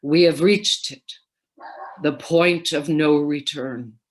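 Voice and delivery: slow, weighty stage delivery of "the point of no return"; dramatic stage line. Retold or imitated. Actor at the footlights delivering the curtain line, slow and solemn. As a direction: lean into it like a character at the footlights. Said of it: "near the front of the footlights said".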